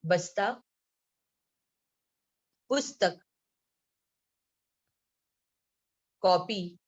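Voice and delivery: बस्ता, पुस्तक, कॉपी each read alone with long pauses; word by word. Shown as a demonstration. Teacher reading vocabulary to children, word by word. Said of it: "मैं एक एक शब्द पढ़ रही हूँ".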